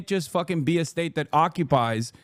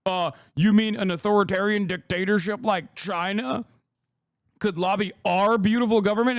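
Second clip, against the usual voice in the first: mock straight-faced American; 5 semitones higher than usual. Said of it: "with a fucking straight face and be like".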